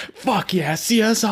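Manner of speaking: high, whooping fake fan cheer; mock fanboy cheer. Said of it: "you're getting really worked up about this".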